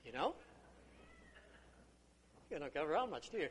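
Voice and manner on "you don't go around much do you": normal talking voice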